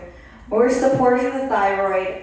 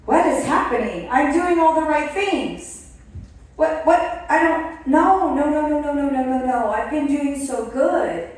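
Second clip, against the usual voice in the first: higher, rising panic; frantic no no no at a higher pitch; panicked; 5 semitones higher than usual. Retold or imitated. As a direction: relive the scale shock with mock alarm. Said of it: "and I was like".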